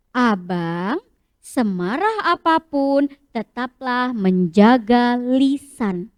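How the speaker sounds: low, gentle fatherly advice; calm father. Acted. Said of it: "kata Abah".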